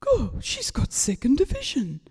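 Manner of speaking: breathless, hushed disbelief; awed whisper. Retold or imitated. Dad reading out the second division win, in an awed whisper. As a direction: whisper it as if you can't believe it.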